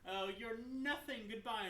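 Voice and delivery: evil witch. Retold or imitated. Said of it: "like an evil witch".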